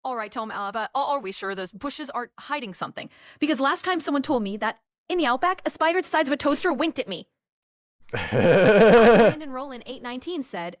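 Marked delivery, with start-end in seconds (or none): 0.0-7.3 Australian accent, getting faster and louder. Shown as a demonstration. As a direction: spin a tall outback tale in an Australian accent. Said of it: "do more Australia accent".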